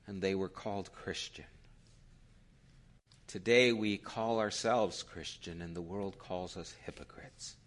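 measured public prayer, long pauses; low-key, reverent address to God; solemn prayer. Real, not acted. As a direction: pray earnestly, phrase by phrase. Leads the closing prayer.

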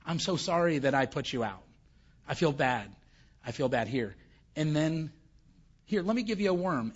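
mock pampering. God voiced mockingly pampering Jonah.

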